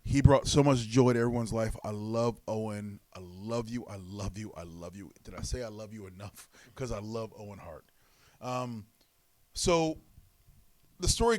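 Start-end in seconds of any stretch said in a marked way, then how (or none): 1.8-6.5 fading tender repetition. Real, not acted. Gushing over Owen, fading.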